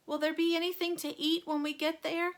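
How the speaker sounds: high, quavery granny question; old woman voice. A narrator's reading. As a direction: ask like a hungry old granny. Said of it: "asked Grandma Josephine".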